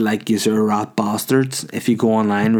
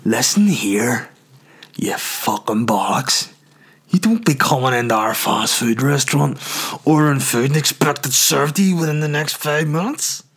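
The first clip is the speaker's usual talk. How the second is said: imagined owner on the phone; 3 semitones higher than usual. Retold or imitated. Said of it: "how Missus Tucker gets on the phone".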